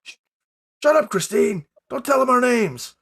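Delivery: high, hushed panicky scolding; muffled voices. Acted. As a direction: snap at her, muffled and scared. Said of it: "you hear muffled voices".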